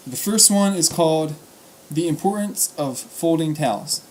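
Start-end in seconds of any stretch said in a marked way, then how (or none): 1.9-4.0 measured, clearly projected title reading; title announcement. Real, not acted. Reader introducing the first piece, title announcement. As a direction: announce the title at an even pace.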